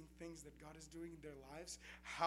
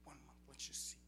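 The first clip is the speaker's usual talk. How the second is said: whispered retold promise; hushed quote; 2 semitones lower, 5 dB quieter than usual. Retelling a brother's promise in a whisper. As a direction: half-whisper his words.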